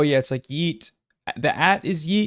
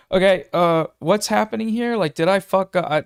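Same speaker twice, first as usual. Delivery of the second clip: confused self; 4 semitones higher than usual. Retold or imitated. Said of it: "And it's like".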